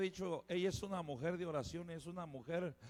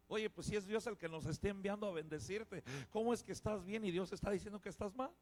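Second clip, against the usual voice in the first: soft chiding; 5 dB quieter than usual. Retold or imitated. Rebuking the proud, softly.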